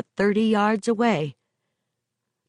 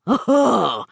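hearty ribbing; 4 semitones lower, slower than usual. Acted. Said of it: "clapped Joe on the shoulder and laughed".

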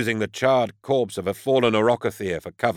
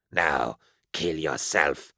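lower, slow, chuckling menace; slow, lower, sinister suggestion; chortling demon child; 5 semitones lower, 3 dB quieter, much slower than usual. A narrator's reading. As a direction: coax him to death with a gloating chuckle. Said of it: "it suggested, chortling".

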